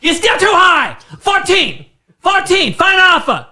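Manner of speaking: put-on high, shouted Asian-accent haggling; imitation Asian-accented customer, loud and insistent; thick mock Asian accent. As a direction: yell it out in a hammed-up Asian accent. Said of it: "she had a very thick, like, an Asian type thing".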